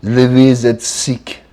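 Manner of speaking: slow mock French accent. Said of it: "Put your French accent on".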